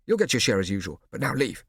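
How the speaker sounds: firm order. Acted. Scipio ordering them out.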